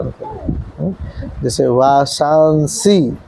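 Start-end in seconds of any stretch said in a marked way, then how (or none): 1.4-3.2 वासांसी with both nasal sounds clear and slow; careful pronunciation. Shown as a demonstration. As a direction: say वासांसी slowly, sounding the anusvara. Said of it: "अनुस्वार भी है तो उसको भी बोल लेना पड़ेगा". (वासांसी धीरे, अनुस्वार साफ़)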